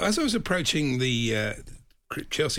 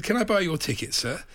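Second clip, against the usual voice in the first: higher-pitched imitation American accent; 6 semitones higher than usual. American asking to buy a ticket, imitated accent. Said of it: "I'm gonna do the accent".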